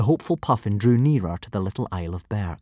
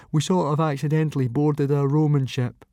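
put-on higher, timid boy explaining; nervous boy voice; 5 semitones higher than usual. A narrator's reading. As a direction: explain it nervously, like a scared kid.

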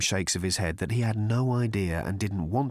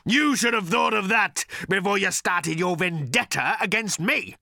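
accusing creature voice; 11 semitones higher, 3 dB louder than usual. Acted. Agrajag accusing.

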